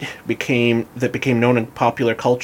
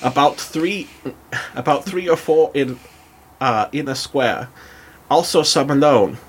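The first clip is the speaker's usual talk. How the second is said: put-on German accent. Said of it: "do a German accent as I read".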